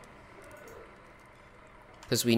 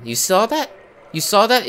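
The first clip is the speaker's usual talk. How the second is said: incredulous; 9 semitones higher, 7 dB louder than usual. Real, not acted. Item vanishes again.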